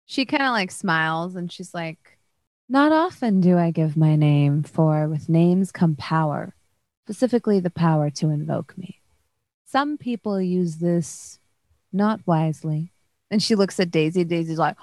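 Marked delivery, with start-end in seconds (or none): 2.7-12.9 lightly voiced grave, measured celestial figure; celestial being, guarded.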